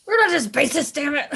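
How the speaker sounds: loud and insistent, high; emphatic shout. Acted. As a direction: declare it with mock fury. Emphatic repeat of the motto.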